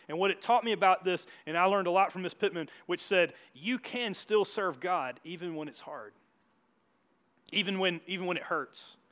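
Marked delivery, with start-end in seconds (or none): 3.5-9.0 slow preaching refrain. Acted. Preacher repeats a rising refrain.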